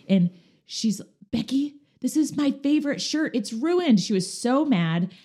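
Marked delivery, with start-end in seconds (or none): 1.3-4.0 high-pitched mock upset complaint; upset friend. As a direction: imitate a middle-school friend whining about her ruined shirt.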